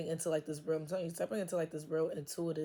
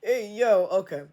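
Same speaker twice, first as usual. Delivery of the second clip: loud, higher call to refocus; self snap back; 3 semitones higher, 11 dB louder than usual. Real, not acted. Reader loudly snaps herself back to the reading. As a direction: shout yourself back on track.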